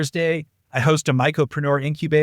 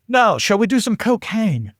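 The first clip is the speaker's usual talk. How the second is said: higher, slow mock German accent; 6 semitones higher than usual. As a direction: imitate a German buddy, drawing out the offer. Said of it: "Still working on my German accent".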